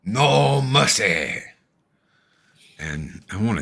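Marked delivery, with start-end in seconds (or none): 0.1-1.4 lightly voiced drill sensei barking orders; a hint of a hard-nosed karate coach, slow on no mercy; John Kreese. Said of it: "John Kreese, man".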